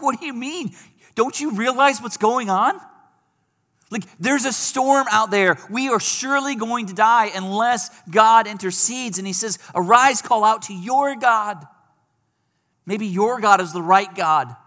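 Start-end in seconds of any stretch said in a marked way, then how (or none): 0.0-9.2 higher, urgent questions of a panicked captain; captain rousing Jonah in the storm, alarmed. Retold or imitated. Captain confronts sleeping Jonah. 9.8-14.6 higher, pressing command to pray; captain ordering Jonah to call on his God, urgent. Retold or imitated.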